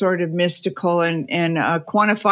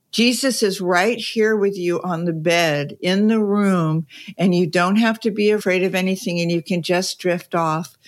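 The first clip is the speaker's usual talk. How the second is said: a little harsh. Retold or imitated. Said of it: "she says a little harshly".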